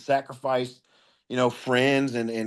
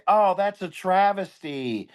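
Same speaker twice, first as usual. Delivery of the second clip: slow, higher mock-sorrowful oh; mocking online poster; 4 semitones higher, slower than usual. Mocking people online who misuse a word, slow mock lament. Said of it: "they say".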